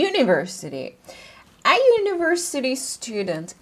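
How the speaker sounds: "university" starting with a Y sound; "university" said you-niversity; a university student. Shown as a demonstration. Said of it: "university diye telaffuz ettiğim".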